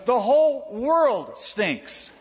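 put-on high, slow, whiny old man's complaint; cranky old grandpa. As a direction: whine it like a grumpy old codger just woken up. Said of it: "cranky old man".

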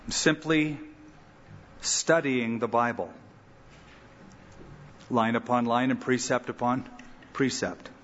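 calm, steady pastoral prayer voice. Real, not acted. Pastor closing Bible study, calm earnest prayer. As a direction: pray earnestly over the group.

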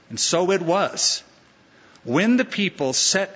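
scripture reading. Acted. Reads the scripture passage.

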